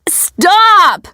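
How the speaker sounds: high-pitched shouted order; director's sharp command. A narrator's reading. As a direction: call a halt to the whole crowd. Director cuts off the wrong shout.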